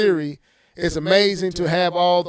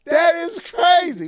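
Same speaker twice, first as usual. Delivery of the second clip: higher and worked up, building to a shout; heated rant; 5 semitones higher, 3 dB louder than usual. Real, not acted. Host ranting at Nintendo's critics, heated. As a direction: vent it, getting louder as you go. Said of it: "Let me calm down".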